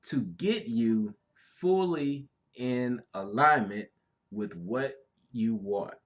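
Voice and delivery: with hiccups while speaking; fighting back hiccups; hiccuping. Real, not acted. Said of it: "I'm hiccuping as I'm trying to say this".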